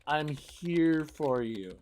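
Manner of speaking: slow, sincere I'm here for you; a slow, gentle comfort line; tender reassurance. Shown as a demonstration. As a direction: say it slowly, like you mean it. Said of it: "You gotta be supportive".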